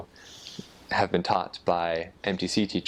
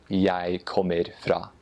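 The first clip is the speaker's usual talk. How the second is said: slow Eastern Norwegian, full kommer; slower than usual. Shown as a demonstration. Guest contrasting the Eastern Norwegian dialect with the Northern one. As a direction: Eastern Norwegian jeg kommer fra, all syllables said. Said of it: "that is the Eastern dialect".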